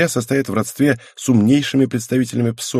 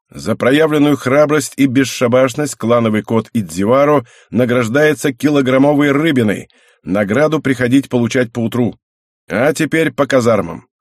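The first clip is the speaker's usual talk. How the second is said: loud, formal proclamation; mock official announcement; 4 dB louder than usual. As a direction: announce it like a commander. Mock official award speech.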